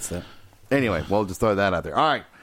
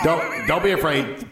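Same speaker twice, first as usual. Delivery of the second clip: laughing mock reassurance; 6 semitones higher, slower than usual. Coach repeats slower laughing.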